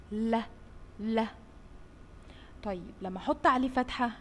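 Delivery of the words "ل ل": isolated l sound, said twice; letter sound l. Shown as a demonstration. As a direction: say ل alone, twice. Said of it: "صوت حرف اللام". (نطق صوت ل منفصل)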